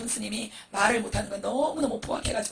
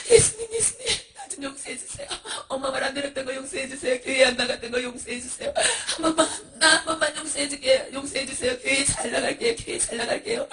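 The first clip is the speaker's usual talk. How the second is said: desperate pleading. Acted. Children in hell begging Jesus for forgiveness, tearful pleading. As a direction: beg forgiveness in a child's crying voice.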